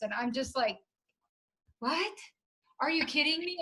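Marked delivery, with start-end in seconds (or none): 1.8-3.6 retold amazement, pitched higher; excited disbelief. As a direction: react in delighted disbelief, voice lifted. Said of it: "I'm just so excited".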